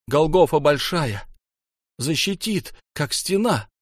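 high, urgent realisation; frantic thinking. A narrator's reading. Frantic thoughts, burning bomb in hands.

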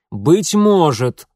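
roared, emphatic «может»; barked exclamation. A narrator's reading. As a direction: bark it out slowly and forcefully. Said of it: "рявкнул отец".

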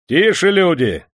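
high, loud call to a crowd. A narrator's reading. Атаман унимает народ. (громкий призыв к тишине)

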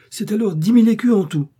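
bien plus haut et plus fort, triomphant; annonce triomphante. Acted. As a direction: lancer le prix avec éclat. Le démon annonce le prix. (le démon annonce fièrement son prix, haut et fort)

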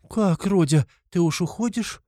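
high-pitched startled question; frightened. A narrator's reading. Frightened mother asks her son if he is leaving, alarmed. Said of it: "даже с испугом спросила".

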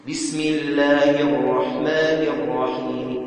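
slow chant, short long-vowel in الرحيم, faint i after m; rawm with short madd. Shown as a demonstration. Teacher shows students reading with qasr, chanted rawm ending. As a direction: recite الرحيم unstretched, its final kasra weakened. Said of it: "تقرأ بالقصر".

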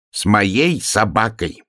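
slow, proud hare; self-important. Acted. Hare tells friends about his new dog, self-important. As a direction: draw it out with importance. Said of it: "важно сказал заяц".

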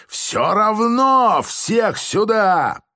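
high, slow barked command; stubborn shouted order. A narrator's reading. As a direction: insist on it, drawing the words out. Major orders everyone out. (высокий медленный окрик)

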